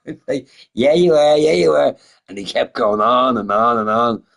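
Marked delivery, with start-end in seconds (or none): 0.7-2.0 insistent dude. Retold or imitated.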